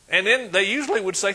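normal talking voice

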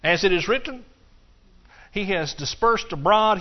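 slow, measured scripture reading with sermon emphasis. Acted. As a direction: read each phrase slowly and deliberately. Reads scripture aloud in sermon.

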